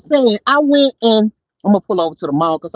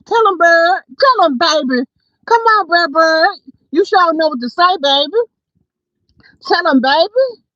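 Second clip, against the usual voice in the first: hype cheering; 7 semitones higher than usual. Real, not acted. Hyping someone up while driving.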